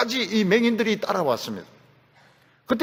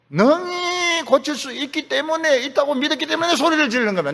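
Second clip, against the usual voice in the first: confident answer; 7 semitones higher than usual. Retold or imitated. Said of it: "이렇게 대답하든지".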